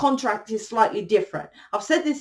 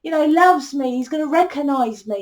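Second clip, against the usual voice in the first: higher-pitched starry-eyed certainty; naive confidence; 5 semitones higher than usual. Retold or imitated. Twin flame imagining her partner will know her, naively confident. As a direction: gush trustingly, as if love settles it. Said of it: "And we naively think".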